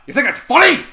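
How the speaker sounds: put-on loud, high threatening bark at the kids; menacing shout. Trevor threatens the giggling brothers with a loud snarl. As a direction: snap at them so the whole room freezes.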